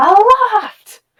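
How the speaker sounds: very high, shrill, full-lung yell. A narrator voices a character calling up to someone above, yelling at the top of her lungs. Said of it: "yells at the top of her lungs".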